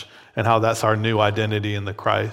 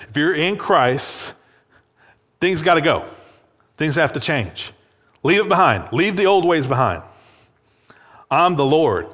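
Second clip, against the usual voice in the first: authoritative God; 4 semitones higher than usual. Acted. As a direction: declare it like a forceful Lord. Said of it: "God in his authoritative, forceful way".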